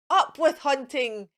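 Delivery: rallying shout; shouted slogan. Acted. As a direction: shout it like a war cry. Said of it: "And they shouted".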